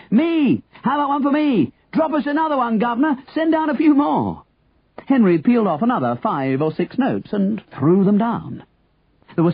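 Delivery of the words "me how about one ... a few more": high, eager clamour; calling out. A narrator's reading. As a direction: beg for it in high crowd shouts. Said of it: "started calling out".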